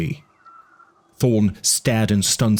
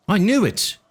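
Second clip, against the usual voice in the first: anxious Eddie; 11 semitones higher than usual. A narrator's reading. Eddie's voice in audiobook.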